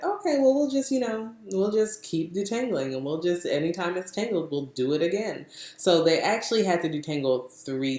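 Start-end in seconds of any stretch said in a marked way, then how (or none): 0.0-5.4 high-pitched easygoing imitation, settling down; unintimidated. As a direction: start high and breezy, ease down to usual pitch. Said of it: "they were not intimidated by it".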